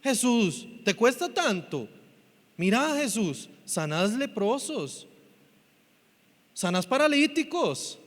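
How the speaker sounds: ruego imitado, algo agudo; discípulos suplicantes. Retold or imitated. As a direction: imitar a quien pide un favorcito. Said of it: "se volvieron y le dijeron". (discípulos que suplican)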